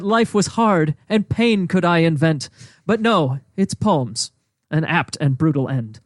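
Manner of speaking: measured mock-Shakespearean verse reading; poem recitation. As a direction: recite it in steady iambic rhythm. Recites his punishment poem.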